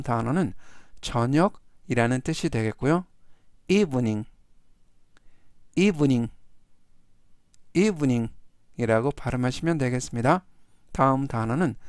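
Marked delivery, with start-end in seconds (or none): 3.7-8.3 measured word-by-word reading for repetition; slow model reading. Shown as a demonstration. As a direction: give each repeat room for learners to follow. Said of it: "천천히 세 번씩 읽어드리고요". (따라 하도록 천천히 읽기)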